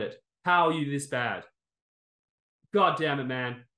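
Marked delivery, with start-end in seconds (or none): 2.7-3.6 angry curse. Real, not acted. Venting at the fight, furious curse. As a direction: spit out God damn it with the word God punched. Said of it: "I am still so angry".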